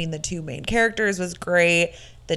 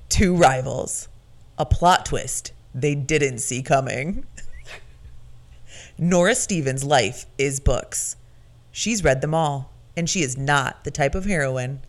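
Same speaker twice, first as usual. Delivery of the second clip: movie announcer voice. Shown as a demonstration. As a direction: sell it like a film trailer. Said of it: "Where the fuck has this voice been".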